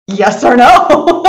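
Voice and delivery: slow laughing question; slow, amused yes-or-no to the group. Real, not acted. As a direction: ask it through a laugh. Host polls the group, laughing.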